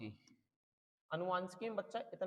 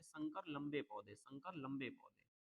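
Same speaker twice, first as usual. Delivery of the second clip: slow dictation; 2 semitones lower, 4 dB quieter, slower than usual. Real, not acted. Teacher dictating key term slowly.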